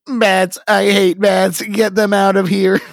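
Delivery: high, loud panicked scream. Acted. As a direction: shriek about the bats. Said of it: "Lydia screams".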